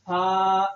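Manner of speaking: سا with teeth apart, no hiss; open-teeth ث. Shown as a demonstration. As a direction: say سا without closing the teeth. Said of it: "دانت نہیں ملانا".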